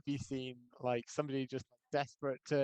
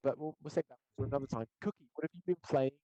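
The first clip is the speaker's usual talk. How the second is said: jittery audio. Real, not acted. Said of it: "Your audio's still a little bit jittery".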